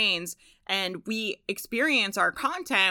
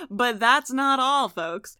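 slow showy infomercial host; hammed-up pitchman, drawn out; salesman voice; 4 semitones higher, 5 dB louder, slower than usual. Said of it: "You guys like my salesman voice?".

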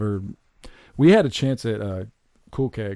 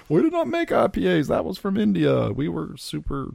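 genie voice; 8 semitones higher than usual. Pretend. Genie keeps talking.

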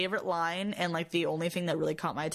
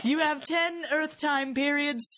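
slow, laughing alien voice; laughing alien quote; 5 semitones higher, slower than usual. Retold or imitated. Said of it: "the alien said".

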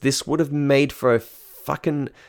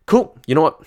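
sarcastic cool; 6 semitones higher, 4 dB louder than usual. Retold or imitated. Sarcastic reply to her orders.

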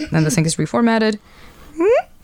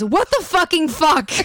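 slow disbelief; 3 semitones higher, slower than usual. Acted. Husband's shocked text.

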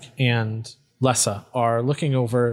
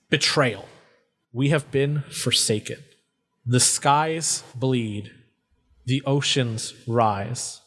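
solemn inscription reading. Acted. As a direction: read it out like a doomed last message. Reads a carved inscription aloud.

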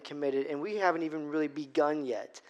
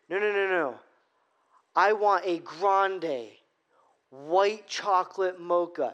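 slow, firm, a bit louder; mock-intense re-order; getting intense; 3 dB louder, slower than usual. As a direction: press each word, losing patience. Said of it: "I'm starting to get intense".

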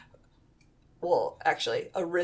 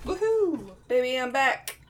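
excited; 6 semitones higher than usual. Acted. Celebrating return from break.

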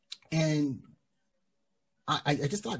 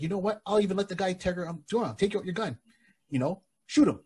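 daring taunt; 8 semitones higher than usual. Retold or imitated. Springfield daring guard, pitched high.

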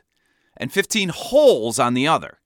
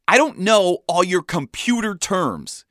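snapping; 6 semitones higher than usual. A narrator's reading. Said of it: "he snapped, exasperated".

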